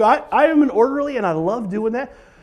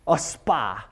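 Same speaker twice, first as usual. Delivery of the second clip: deadpan; 10 semitones lower, 8 dB quieter than usual. Real, not acted. Disdainful aside.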